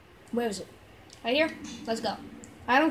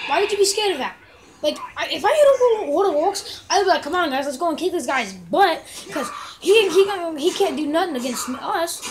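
loud rant; 4 semitones higher, 6 dB louder than usual. Real, not acted. Ranting about orc behaviour.

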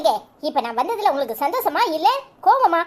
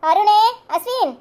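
calling out; 4 semitones higher, 4 dB louder than usual. Acted. Mother calls the children.

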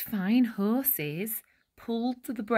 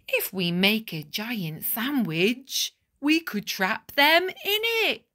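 an idea growing into a triumphant shout; excited baker. Acted. Bap the baker leaping up with his plan, eager and rising. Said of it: "leaped to his feet and cried".

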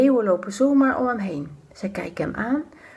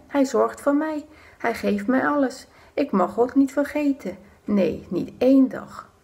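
a hint of a devout old man, higher; earnest old Daniel; 3 semitones higher than usual. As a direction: say it with steady, sincere conviction. Daniel voiced, firm faith. (vastberaden Daniel, licht gespeeld)

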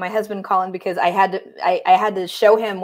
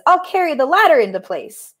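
lightly voiced skunk, higher pitch; volunteer in a slightly raised character voice; skunk camper; 6 semitones higher than usual. Skunk offering to help, lightly put-on high voice. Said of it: "Skunk says".

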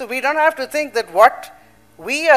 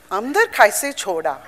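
lightly imitated South Bombay accent. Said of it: "in this Bombay, South Bombay accent".

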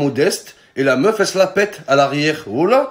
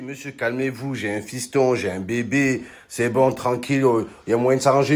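lower, softer mock appeasing; calming plea; 3 semitones lower, 3 dB quieter than usual. Narrator pretending to calm the biker, soft and low. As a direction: soothe him down, quiet and low. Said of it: "Je dis".

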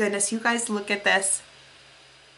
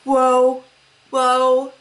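mock dazzled whoa; 2 semitones higher, 6 dB louder, much slower than usual. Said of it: "it's gonna be like".

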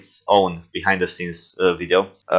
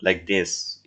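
slow, softer take on a weird accent; Alan; 5 dB quieter than usual. Shown as a demonstration. Voice actor correcting his demo of a character, slow weird accent. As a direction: draw it out softly in an odd accent. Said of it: "He has that weird accent".

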